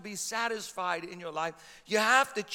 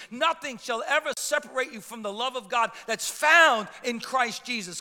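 emphatic, building sermon delivery; forceful preaching; 4 dB louder than usual. Real, not acted. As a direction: drive each truth home to the congregation.

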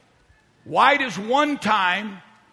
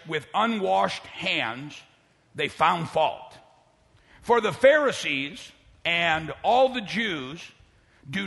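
careful unhurried voice. Shown as a demonstration. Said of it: "let me say this slowly".

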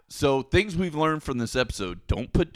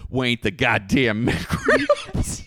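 laughing through it; 4 semitones lower, much slower than usual. Retold or imitated. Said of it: "And he's like".

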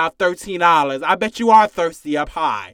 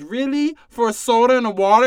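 incredulous; 5 semitones higher, 5 dB louder than usual. Acted. Mocking outraged customer rant.

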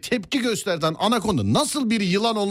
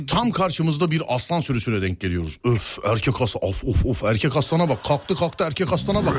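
excited tour guide; 4 semitones lower than usual. Acted. Tour guide redoing the lion scene.

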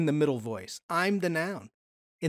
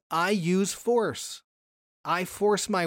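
slow reading; 2 semitones higher, slower than usual. Shown as a demonstration. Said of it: "So in the middle, it says".

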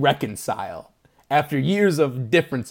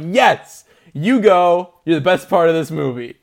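cheering; 3 semitones higher, 7 dB louder than usual. Retold or imitated. Cheering actor in movie.

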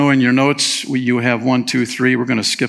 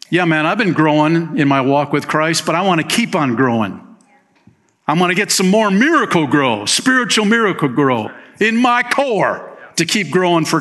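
casual Paul voice; 3 semitones higher than usual. Retold or imitated. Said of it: "Paul is saying".

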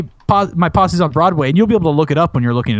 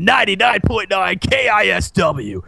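radio jingle. Retold or imitated. Radio station jingle call-out.

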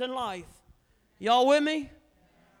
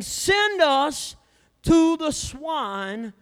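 begging demons; 6 semitones higher, 8 dB louder, much slower than usual. Acted.

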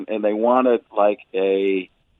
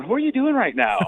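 high-pitched mock confusion, imitating baffled listeners; mock puzzled listeners; 12 semitones higher than usual. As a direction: squeak out a bewildered question, much higher. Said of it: "then people are going".

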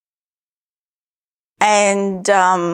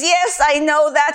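lightly imitated Ugandan accent, higher; a hint of her roommate's African accent; 5 semitones higher, 4 dB louder than usual. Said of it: "in her thick African av-, accent".

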